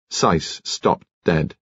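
plain reading voice

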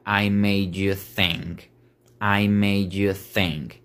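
slow "I made you think" with "made you" joined; slow linked phrase. Shown as a demonstration. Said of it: "la frase quedaría".

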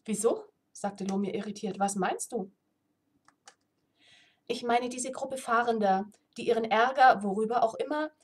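reading a fantasy novel aloud; steady storyteller read; story narration. A narrator's reading. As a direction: tell the tale evenly to listeners.

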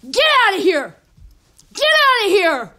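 angry bellow, second one stretched out; shouted order. Acted. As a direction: throw them out with a full shout. The guy orders him out.

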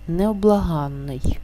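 slow необлаганний, stressed on the suffix АН; наголос на суфіксі. Shown as a demonstration. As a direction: stress the АН syllable in необлаганний, with a long doubled н. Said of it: "під наголосом". (наголос на АН у слові необлаганний, подовжений н)

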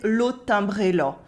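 eastern French "l'autre timbré là", là nearing "lo"; slight eastern France accent on "l'autre timbré là"; rural eastern French accent. Shown as a demonstration. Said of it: "the A sounds more like an O".

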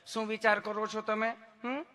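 sweet sing-song nurse questioning; mock-affectionate nurse voice; lovingly asking nurse. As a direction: ask tenderly, then a coaxing hum. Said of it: "તમે કેટલું પ્રેમથી પૂછો છો".

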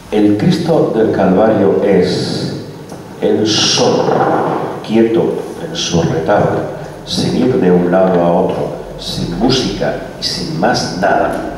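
slow, measured reading aloud; solemn recitation. Acted. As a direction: read it like devotional prose, phrase by phrase. Recites the speaker's written text.

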